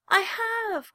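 high, loud protest; cried out. A narrator's reading. Little rabbit protests to the wild rabbit, high cry. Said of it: "cried the rabbit".

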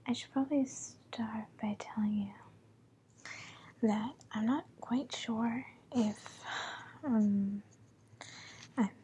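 breathy whisper, close to the mic. Real, not acted. Holds whisper throughout.

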